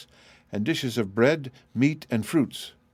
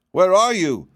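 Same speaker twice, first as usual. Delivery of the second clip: calling out; 9 semitones higher, 6 dB louder than usual. Acted. Wizard calls for lost piglets.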